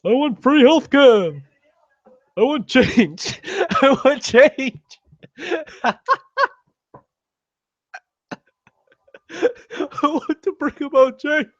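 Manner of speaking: put-on high, strained old-man campaign voice; Bernie Sanders impression. Lampooning Bernie's campaign pitch in a high, strained voice. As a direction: pitch way up and rant like a stump speech. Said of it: "my Bernie Sanders impersonation".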